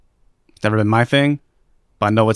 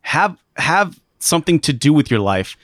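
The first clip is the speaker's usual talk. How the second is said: mock scolding; 3 semitones higher, slower than usual. Mocking angry neighbor insults.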